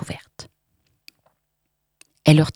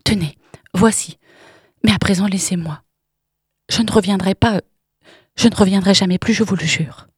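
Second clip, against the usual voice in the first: pleading promise; 3 semitones higher than usual. Acted. Irène paying her off, pleading.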